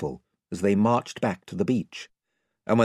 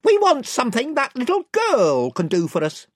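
raised voice of a gang chief; 5 dB louder than usual. A narrator's reading. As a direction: warn them off as spokesman, pitched up. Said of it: "said the chief voice".

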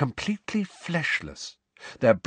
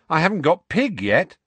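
put-on higher, louder boy protest; Ron protesting; 7 semitones higher, 5 dB louder than usual. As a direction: Ron objecting.

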